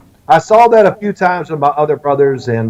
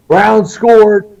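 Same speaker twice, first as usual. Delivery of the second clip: calling out; 6 semitones higher, 4 dB louder than usual. Retold or imitated. Dad calling from window.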